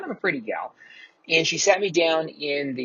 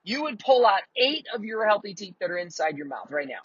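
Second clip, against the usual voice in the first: high-pitched disbelieving challenge; retold incredulous retort; 7 semitones higher than usual. Patient challenging the dentist's advice, high and incredulous. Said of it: "and then it said".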